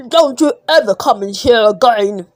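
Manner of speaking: angry waiter throwing a customer out; waiter shouting. Acted. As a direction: shout him out of the restaurant. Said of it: "the waiter shouted".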